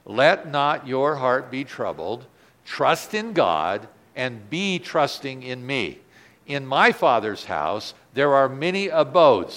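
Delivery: slow, measured scripture reading; slow group recitation. Shown as a demonstration. Pastor leading the congregation in reciting scripture, slow and measured. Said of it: "So let's say it together".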